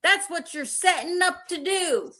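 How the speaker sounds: put-on Southern accent. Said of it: "That's Southern".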